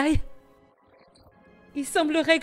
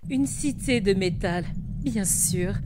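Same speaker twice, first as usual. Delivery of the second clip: low, subdued disdain; bitter; 4 semitones lower, 5 dB quieter than usual. Acted. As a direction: keep the contempt low and cold. Priestess bitter at the metal city.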